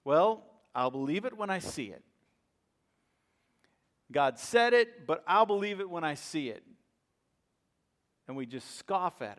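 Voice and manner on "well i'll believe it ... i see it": scoffing doubt. Pretend. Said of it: "the other kind of laughter is".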